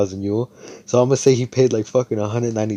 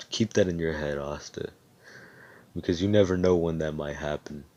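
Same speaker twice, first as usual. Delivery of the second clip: lightly voiced solemn mentor; 2 semitones lower, 5 dB quieter than usual. Madara warning Asta of the risk of hatred, lightly solemn.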